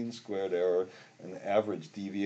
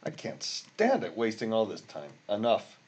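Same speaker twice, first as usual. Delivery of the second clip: exasperated; 4 semitones higher than usual. Real, not acted. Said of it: "I'm so mad".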